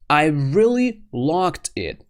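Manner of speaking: REALLY drawn out and stressed; emphatic REALLY. Shown as a demonstration. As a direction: insist slowly, leaning on REALLY. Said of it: "Like this".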